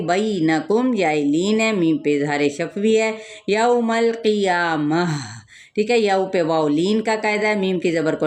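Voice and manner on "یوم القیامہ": یوم القیامہ drawn out slowly, chanted; slow recitation. Shown as a demonstration. Teacher modelling a Quran phrase for students, slow chant. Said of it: "Quran word recited as model".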